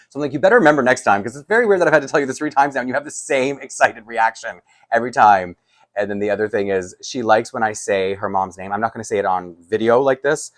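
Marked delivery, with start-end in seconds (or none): 0.3-5.6 teasing exasperation. Retold or imitated. Teasing exasperated reply to friend.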